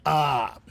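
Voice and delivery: refreshed "ah" after a drink; thirst-quenched sigh; satisfied sigh. Real, not acted. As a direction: let out a satisfied ah, as after a long sip. Sighs after a drink of water.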